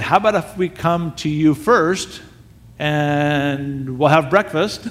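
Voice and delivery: slow, drawn-out tentative offer; hesitant improvising. Retold or imitated. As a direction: stretch it out, thinking as you go.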